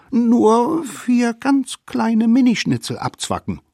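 very high, loud tiny voice; wheedling little savages. A narrator's reading. Savages play down the bite to mammoth, wheedling. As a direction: make it sound teeny and harmless. Savages minimise their crime.

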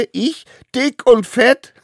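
high, loud scornful laughter; cackling little hero, words between laughs; amused laughing. A narrator's reading. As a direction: laugh the insult off in disbelief. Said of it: "musste sogar lachen darüber".

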